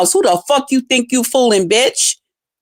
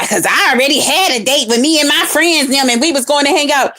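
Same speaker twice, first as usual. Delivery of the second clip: mock excuse; 2 semitones higher than usual. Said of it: "And tell me".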